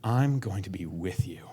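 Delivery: breathy whisper, barely there; whispered promise. Acted. God promising presence, whispered close and intimate. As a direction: let it fall to a whisper.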